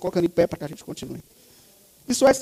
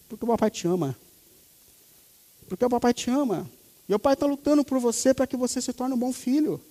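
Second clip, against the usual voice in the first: tender fatherly talk; 2 semitones higher than usual. Retold or imitated. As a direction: coax the boy gently, like a loving dad. Father talks to son after punishment.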